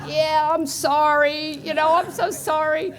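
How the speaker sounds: slow, giggly sheepish apology; laughing apology. Retold or imitated. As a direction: laugh through a bashful sorry. Embarrassed reply to fan.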